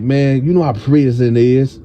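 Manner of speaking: "prison" with a slight lisp on the s; imitated lisp. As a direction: say "prison" as if with a little lisp, leaning on the s. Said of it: "this little lisp".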